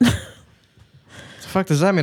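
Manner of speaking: slow, high disbelief; incredulous. Real, not acted. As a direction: drag it out, baffled. Reacting to ring demand.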